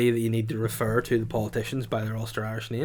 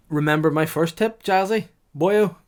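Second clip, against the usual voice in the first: mock hype call; 9 semitones higher, 6 dB louder than usual. Calling out a mock stage name.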